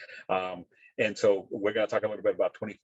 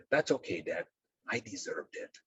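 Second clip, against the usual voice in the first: retold resigned child; 5 dB quieter than usual. Son answers his apologising dad, retold quiet resignation. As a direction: let the acceptance sink away quietly.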